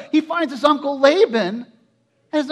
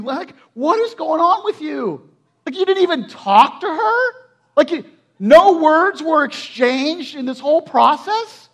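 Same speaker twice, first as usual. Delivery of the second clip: incredulous scolding; 4 dB louder than usual. Acted. Preacher confronts Jacob over the wrong woman, incredulous. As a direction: take him to task, stretching the key words.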